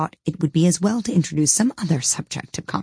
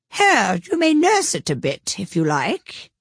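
put-on high, slow, gruff old duchess; rough, haughty duchess voice; 4 semitones higher, slower than usual. A narrator's reading. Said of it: "the Duchess said".

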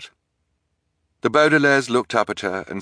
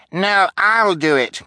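high, loud, drawn-out cry; 12 semitones higher, 5 dB louder, slower than usual. A narrator's reading. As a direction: cry out to outbid the others. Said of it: "Kevin cried".

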